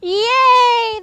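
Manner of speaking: high, loud, held hurrah; cheering. A narrator's reading. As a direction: let out a relieved crowd cheer. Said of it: "the crowd cheered".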